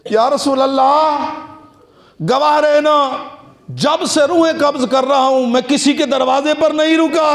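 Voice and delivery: a solemn, lightly voiced angel of death who bears witness; angel of death speaking. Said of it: "मलकल मौत आ गया". (मलकल मौत की हल्की सी बदली हुई, थोड़ी ऊँची गंभीर आवाज़)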